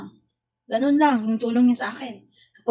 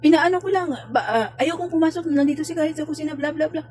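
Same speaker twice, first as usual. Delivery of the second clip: mocking quote; 6 semitones higher than usual. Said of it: "Sabi niya".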